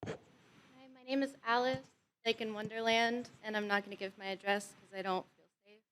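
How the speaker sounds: quiet, tired voice, day after surgery; weak after surgery. Real, not acted. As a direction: speak softly, drained and careful. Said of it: "I just had surgery yesterday".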